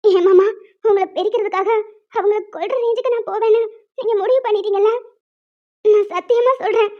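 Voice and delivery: wounded, tearful pleading; crying. Acted. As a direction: plead your innocence through tears. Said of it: "சரி, அழாத, விடு". (அழுதுகொண்டே முறையிடுதல்)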